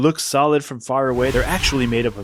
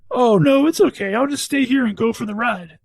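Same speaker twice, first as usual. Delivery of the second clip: alien voice; 10 semitones higher, 4 dB louder than usual. Acted. Stuck gum alien replies.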